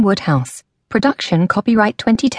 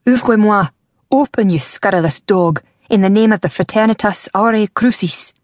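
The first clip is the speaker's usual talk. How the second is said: shouting at the door; 2 semitones higher than usual. Acted. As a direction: pound out the order. Horseman pounding on the door.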